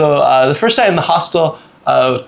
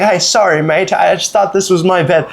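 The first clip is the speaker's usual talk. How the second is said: slightly higher apologetic British voice; British accent; 4 semitones higher than usual. Retold or imitated. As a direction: imitate a British guy apologising. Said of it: "they're both British".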